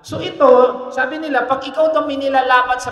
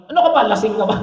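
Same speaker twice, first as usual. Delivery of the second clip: mock scolding; 6 dB louder, much faster than usual. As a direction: scold her like a drunk, loudly. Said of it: "Ganunin ko". (pastor na kunwaring sumisita nang malakas)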